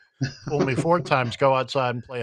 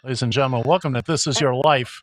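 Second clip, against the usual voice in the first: put-on booming old TV host intro, louder; game show host; 5 dB louder than usual. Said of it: "It's an old T V show".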